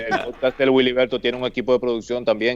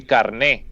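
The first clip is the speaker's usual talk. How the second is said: "carné" with the accent on the last syllable; stress on final E; 3 semitones lower than usual. Shown as a demonstration. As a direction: lean on the NÉ in "carné". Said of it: "terminado en E con acento".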